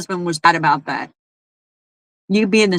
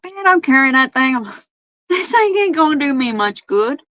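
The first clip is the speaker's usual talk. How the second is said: mock complaining; 5 semitones higher than usual. Retold complaint about bag phone.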